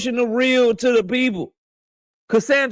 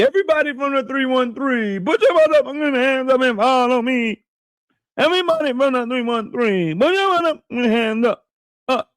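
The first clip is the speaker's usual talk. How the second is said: hype call-out; 3 semitones higher than usual. Acted. Hyping up the 313 crowd.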